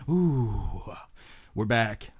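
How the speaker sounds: ordinary talk, nothing marked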